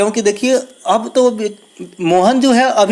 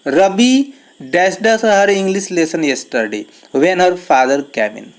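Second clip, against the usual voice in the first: slow dictation; much slower than usual. Shown as a demonstration. Teacher rereads the question.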